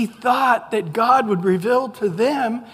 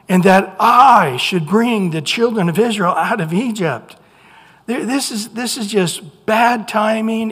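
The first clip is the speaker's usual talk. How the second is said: forceful; 6 dB louder than usual. Real, not acted. Preacher's rising emphasis.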